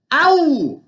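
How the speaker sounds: high loud yelp; pained shout. A narrator's reading. Giant biting a frying pan, loud yelp. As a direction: yelp from broken teeth. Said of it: "shouted Cuchulainn".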